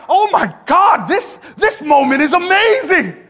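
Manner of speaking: very high, shouting, overexcited gushing; starstruck Peter. Acted. Pastor acting Peter thrilled at seeing Elijah, shouted very high. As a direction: squeal like a fan meeting a hero. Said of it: "Peter's like".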